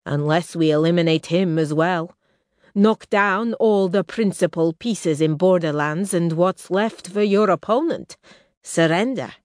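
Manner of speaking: lightly voiced ruthless prince, cold; Roshar, hard prince. Roshar arguing for killing everyone, a hint of menace. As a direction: lay out the kill plainly.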